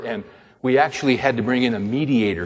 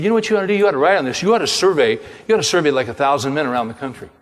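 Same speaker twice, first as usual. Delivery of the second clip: higher, louder, eager pitch; excited professor; 4 semitones higher, 3 dB louder, faster than usual. Retold or imitated. Professor to his student, excitedly pushing the idea. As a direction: sell the idea with rising enthusiasm.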